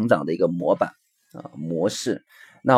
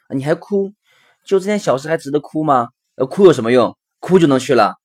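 higher-pitched, cross parental reproach; acted impatient scolding; 4 semitones higher, 4 dB louder than usual. Father scolding his crying child, acted impatience. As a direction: rebuke with rising force, out of patience.

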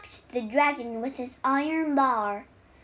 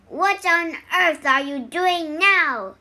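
loud, raised-pitch outburst; exasperated cry; 4 semitones higher, 6 dB louder than usual. A narrator's reading. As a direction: cry out like an annoyed dragon. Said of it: "he cried".

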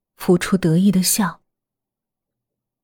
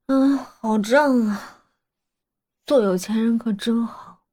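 stuffed full; 3 semitones higher, 4 dB quieter, slower than usual. Acted. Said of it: "我揉揉肚子说".

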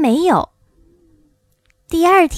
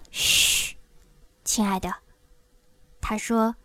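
hushing; 2 semitones lower, 7 dB quieter than usual. Acted. Oz hushing Dorothy, fearing being overheard.

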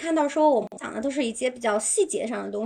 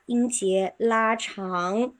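stretched syllables; much slower than usual. Shown as a demonstration. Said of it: "就这种感觉啊".

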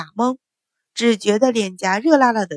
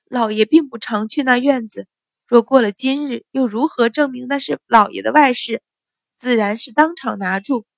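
mildly flustered stammer; 3 semitones higher than usual. Acted. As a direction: justify herself while faltering. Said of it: "结结巴巴道".

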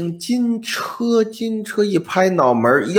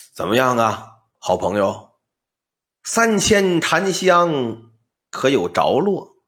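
put-on old man voice; 6 semitones lower than usual. Old man returns to ask.

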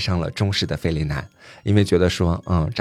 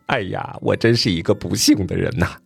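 lightly voiced weeping complaint; a touch of sobbing despair, only acted; mock tearful lament. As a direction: wail mildly, as if crying. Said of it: "就哭泣说".

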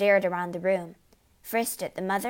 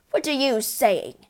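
high, loud, appalled husband; alarmed cry; 5 semitones higher, 6 dB louder than usual. A narrator's reading. Husband appalled by wife's warning, crying out. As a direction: cry out in disbelief. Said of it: "the husband cried".

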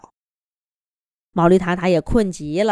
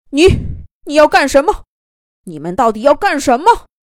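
wary; 7 semitones higher, 6 dB louder than usual. A narrator's reading. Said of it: "毛驴塔塔警惕地说道".

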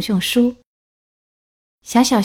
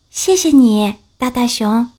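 little bear voice; 3 semitones higher, 3 dB louder than usual. Acted.

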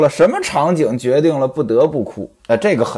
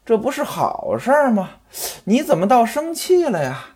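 coaxing wife, pitched higher; lightly voiced wife sweet-talking her sulking husband; fawning wife; 3 semitones higher than usual. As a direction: wheedle him with a forced smile. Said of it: "陪着笑脸说".

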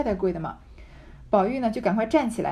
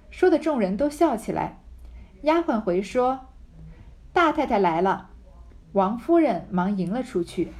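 measured, emphatic reading aloud; deliberate storybook delivery; story narration. A narrator's reading. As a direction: read the classic novel out clearly, with pauses between phrases. Reads the novel aloud.

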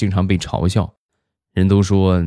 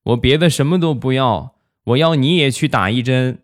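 lightly voiced small child, pitched up; imitated kid bargaining in a higher voice; little kid; 6 semitones higher than usual. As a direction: make a demand like a stubborn little brother. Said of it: "小家伙立马就不哭了".

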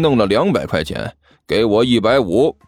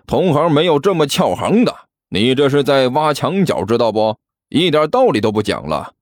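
mildly irritated telling-off; understated annoyance; testy; 2 semitones lower than usual. Acted. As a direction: take the rival to task, a touch peeved. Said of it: "齐健没好气地说道".

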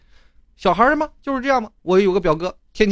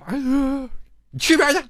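annoyed brush-off; 12 semitones higher, faster than usual. Retold or imitated. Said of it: "然后我那哥说".

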